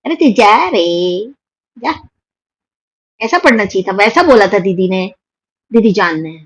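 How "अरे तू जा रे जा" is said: अरे, तू जा रे drawn out very slowly, तू lifted, then a final जा; dramatic filmy reading. Shown as a demonstration. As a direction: deliver अरे, तू जा रे like a film heroine dismissing him, slowly. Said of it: "ऐसे पढ़ते".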